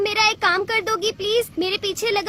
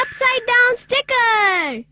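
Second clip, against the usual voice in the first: slow, drawn-out proclamation; gadget announcement; 2 semitones higher, slower than usual. Acted. Robot friend presents a new gadget, proudly drawn out. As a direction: announce each word grandly and stretch it.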